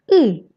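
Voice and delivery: "I" as the Russian ы; tongue pulled back. Shown as a demonstration. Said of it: "en tirant la langue en arrière".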